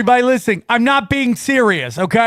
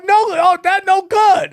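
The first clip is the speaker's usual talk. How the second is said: imitated Indian accent; 9 semitones higher than usual. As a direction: scold as the shop lady. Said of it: "Indian accent".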